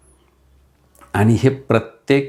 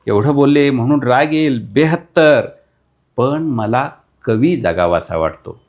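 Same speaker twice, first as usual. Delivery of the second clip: emphatic recital; 3 semitones higher, 3 dB louder than usual. Acted. Repeated line, rising emphasis.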